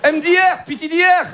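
high-pitched mock Moroccan accent; eager chat-up in a hammed-up Moroccan accent; thick Moroccan Arab accent. Cousin flirting online as a Frenchman, thick Moroccan accent. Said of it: "l'accent arabe".

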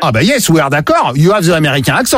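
badly faked English accent; mock franglais. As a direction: put on bad English with a French accent. Prankster answers in mock English.

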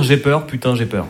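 mock panic. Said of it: "ça veut dire".

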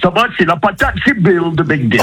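Bill voice. Acted. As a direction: play the cheerful TV character. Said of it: "parler avec votre voix d'animateur".

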